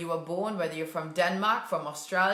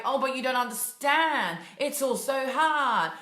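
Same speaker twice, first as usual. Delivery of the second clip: mock victim whine; 3 semitones higher than usual. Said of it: "this victim mentality of like".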